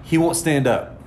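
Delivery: high-pitched mock panic on the phone; imitating frantic brother. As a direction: play a brother losing it, pitched well up. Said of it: "Fucking losing his shit on the phone".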